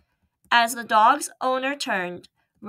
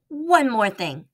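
anxious; slower than usual. Acted. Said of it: "Ralph said anxiously".

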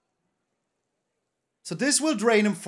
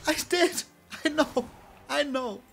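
ecstatic disbelief; 8 semitones higher than usual. Real, not acted. Streamer finally draws a land, shouting in joy. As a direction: yell it like you can't believe your luck.

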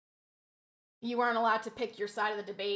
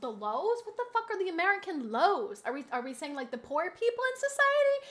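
baffled retort; 4 semitones higher, 3 dB louder than usual. Retold or imitated. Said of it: "I'm like".

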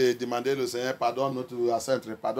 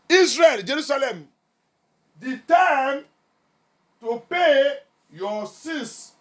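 raised, deliberate pulpit delivery; forceful preaching; 6 semitones higher, 4 dB louder than usual. Acted. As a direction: declaim it slowly, in emphatic bursts. Preaches God's message forcefully.

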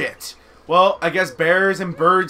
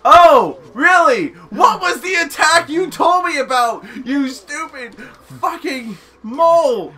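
higher, exasperated comeback; mock-angry sarcasm; 5 semitones higher than usual. Player snapping back at the mole who told them about the attack, mock-angry. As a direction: push the pitch up, sarcastic and fed up.

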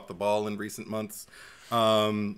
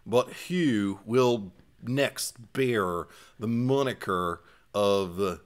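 put-on Minnesota accent; slower than usual. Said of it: "it was almost like Minnesota".

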